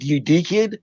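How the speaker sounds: "dickhead" as "deek-head"; Australian vowel. Shown as a demonstration. Comedian mimicking Australians, "dickhead" said as "deek-head". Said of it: "any of that sounds like".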